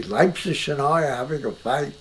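put-on light German accent, Leipzig as Leipsich; a hint of a German professor's accent. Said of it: "he had a thick German accent".

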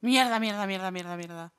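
loud curse fading to a mutter; cursing under breath. Real, not acted. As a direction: repeat the curse, trailing off. Caught by police in game.

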